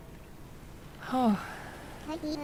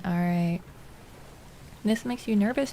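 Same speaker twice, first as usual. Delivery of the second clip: ordinary talk, nothing marked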